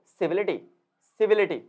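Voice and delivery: सिविलिटी with stress on सिविल, इटी falling away; stress before the suffix. Shown as a demonstration. Teacher showing how to say it, सिविल stressed in सिविलिटी. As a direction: lean on सिविल, drop lightly through इटी in सिविलिटी. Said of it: "सिविल पे जाएगा stress".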